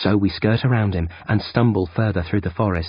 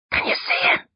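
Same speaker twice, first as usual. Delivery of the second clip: hissed whisper. Acted. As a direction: whisper from the side of the mouth. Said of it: "I hiss out of the side".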